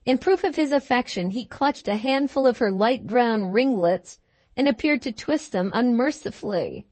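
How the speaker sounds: usual speaking voice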